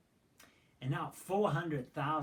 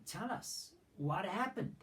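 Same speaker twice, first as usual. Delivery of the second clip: urgent demanding question; 6 semitones higher, slower than usual. Acted. Tribes question the Levite.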